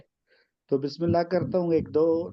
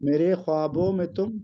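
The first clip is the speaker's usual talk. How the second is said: poem recitation. Acted. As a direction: recite the couplet with weight. Recites ghazal couplets.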